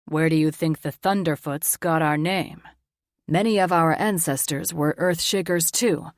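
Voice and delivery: a hint of an elder boasting of ancestors; Tor, proud grinning father. Tor's voice, grinning.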